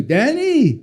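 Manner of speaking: light French Jewish accent, imitating dad. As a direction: call the name in dad's French Jewish accent. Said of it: "in his little French Jewish accent".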